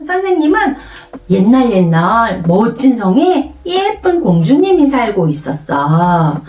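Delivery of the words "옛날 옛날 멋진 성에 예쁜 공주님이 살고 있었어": put-on slow, lilting story for children; children's storytelling. Shown as a demonstration. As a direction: stretch the phrases like a fairy tale. Teacher models made-up story.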